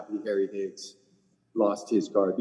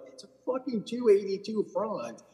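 higher, incredulous rant; exasperated inner rant; 9 semitones higher than usual. Retold or imitated. Retelling his inner disbelief at the golfer's whining. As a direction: sound fed up with his complaining. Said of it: "and I'm like".

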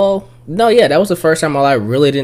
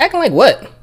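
high incredulous; 13 semitones higher than usual. Retold or imitated. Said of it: "I was like".

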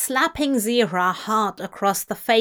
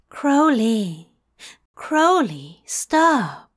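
gentle; 3 dB louder, slower than usual. Acted. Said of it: "his voice oddly gentle".

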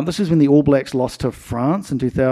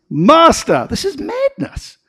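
bold call; 13 semitones higher, slower than usual. Acted. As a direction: call out with sudden nerve. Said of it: "Peter is suddenly emboldened".

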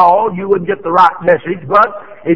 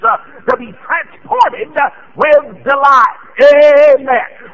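slow, rising to a loud shout on "delight"; preaching build; 6 semitones higher, 3 dB louder, much slower than usual. Real, not acted. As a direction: lift them up with joy.

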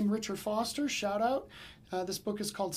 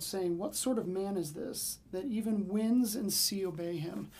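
scripture reading. Acted. Reads Matthew passage aloud.

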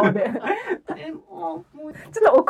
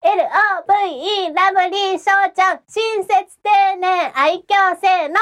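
perky rural middle-schooler; 3 semitones higher than usual. Pretend. Country schoolgirl calling out at a live venue, bubbly. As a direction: play an excited ninth-grader up from the country. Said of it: "中三くらいできます。".

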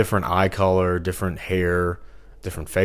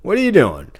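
retold outrage; 6 semitones higher, 5 dB louder than usual. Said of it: "and I'm like".

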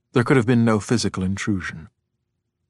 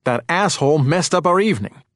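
heated, raised-pitch argument; enraged; 5 semitones higher, 4 dB louder than usual. A narrator's reading. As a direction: rage on at your wife. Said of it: "Henry raged".

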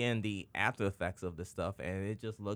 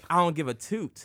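mock careless smoker; 5 semitones higher, 6 dB louder than usual. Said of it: "they're like".

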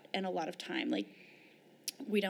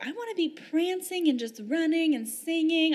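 mock giddy; 8 semitones higher than usual. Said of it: "I'm not, like, over here like".

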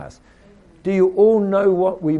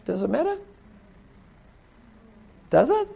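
challenging retort; 5 semitones higher, 4 dB quieter, faster than usual. Retold or imitated. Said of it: "He said".

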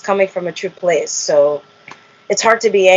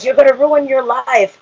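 mildly angry imitation of dad, higher; angry father; 6 semitones higher than usual. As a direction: scold as the upset dad, lightly acted. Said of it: "and then you're angry".

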